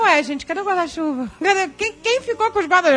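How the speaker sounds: mock alarmed roll call; calling out for umbrellas. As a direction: call round the group, quick and baffled. Friends searching for lost umbrellas.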